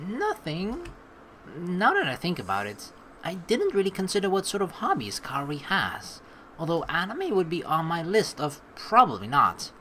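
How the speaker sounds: measured story-reading voice; story narration. Acted. Player narrates a visual novel to viewers, story narration. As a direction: read the game's text out like a narrator. Reads game text aloud.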